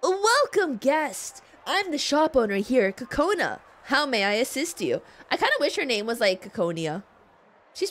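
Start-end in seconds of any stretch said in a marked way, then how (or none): 0.0-5.0 shopkeeper voice. Acted. Voicing shopkeeper character.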